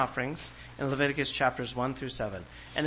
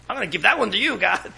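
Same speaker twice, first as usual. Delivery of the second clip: higher and louder, a cheeky put-on voice; mock stingy worshipper; 7 semitones higher, 8 dB louder than usual. Preacher mocking a worshipper offering God the runt, cheeky voice. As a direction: hand God the runt with a smirk.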